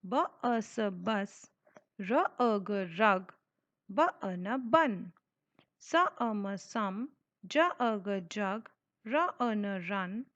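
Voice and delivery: very slow, letter by letter, then the whole word; drawn out like a patient reading teacher; slow phonics sounding out. Shown as a demonstration. Teacher sounds out words for children, very slowly.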